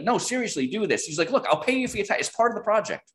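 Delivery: high, pressing imitation of the insistent client. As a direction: push hard for him to do it. Client insisting a third time.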